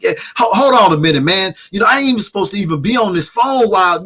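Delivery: mock nervous guest on the phone; imitating paranoid guest. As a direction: rattle it off like a driver spotting cops. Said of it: "he just going off like".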